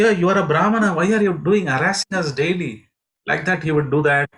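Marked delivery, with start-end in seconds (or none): 0.0-2.9 mock indignant complaint. Brahmanas scolding the mischievous boy Mahaprabhu, mock indignant. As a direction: protest like an offended priest.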